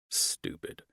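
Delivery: breathy whispered scorn; whispered aside. A narrator's reading. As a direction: whisper it under your breath. Inner thought aside.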